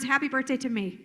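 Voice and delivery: little air, get it out fast; shallow breath. Shown as a demonstration. Trainer showing how breath shapes voice, short of air. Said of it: "Take a really shallow breath".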